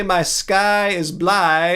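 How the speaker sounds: "blue" turned into "bly", rhyming with sky; slow, drawn-out "bly" with an eye vowel; mock mispronunciation. Streamer arguing about accent, mockingly saying "bly" for blue. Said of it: "you wouldn't say".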